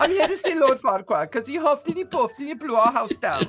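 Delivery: high-pitched silly storyteller at the gate; goofy, high petitioner voice; comic visitor. Acted. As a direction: play it high and cartoonish for laughs. Comic guard-scene visitor, amid laughter.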